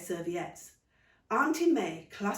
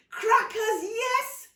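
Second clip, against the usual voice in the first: high, loud happy echo; excited cry; 7 dB louder, much slower than usual. Acted. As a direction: cheer it back at the children. Mother echoes excitedly.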